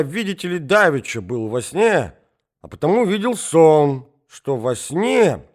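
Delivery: put-on high, slow rambling old man; old prince storytelling. Old prince tells the ladies his anecdote, high and slow. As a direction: amble through the tale like a befuddled old prince.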